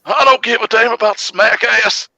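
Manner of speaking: high-pitched, indignant outburst; mock outrage. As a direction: cut in with hammed-up high-voiced outrage. Mock outrage at SmackDown opinion.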